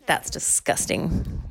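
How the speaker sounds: disgusted. Acted. Grandma spits out oil.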